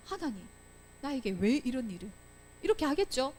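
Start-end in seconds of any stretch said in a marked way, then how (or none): 0.1-2.1 understated, softer plea; wronged lament. Acted. Teacher voices the falsely accused prisoner praying, understated lament. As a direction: quietly act out a prisoner questioning God. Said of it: "억울하고 누명을 쓰고".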